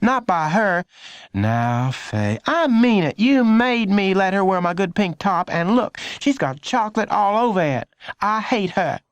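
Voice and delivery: put-on high, indignant teen voice; a sister complaining to mom; high upset girl; bickering older sister. A narrator's reading.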